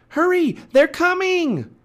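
very high, loud drawn-out warning; urgent shout. Acted. Annie warns Jack of pirates, urgent shout. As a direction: shout a frantic warning from far off.

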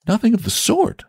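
put-on high, insistent young boy. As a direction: set him straight eagerly. Boy correcting the saint.

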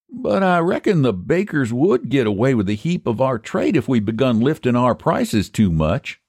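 high-pitched rustic character; country pie seller Eph. Acted. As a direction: voice a high, folksy pie man.

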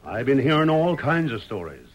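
ominous warning to anxious townsfolk; prophesy trouble with heavy emphasis; foreboding. Acted. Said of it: "his tone became more foreboding".

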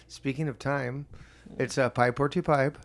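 imitating an Indian-sounding accent, badly; muddled call-center accent. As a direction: attempt a Filipino agent's accent that slips into Indian. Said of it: "I don't know what accent I'm trying to do".

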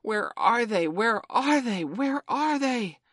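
loud, high echoing roar, last one drawn out; savage cry. A narrator's reading. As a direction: cry out savagely like a booming echo. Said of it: "seemed to cry savagely".

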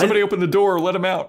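high, loud cry for help; hammed-up frantic plea; mock panicked shout. Acting panicked plea to open door.

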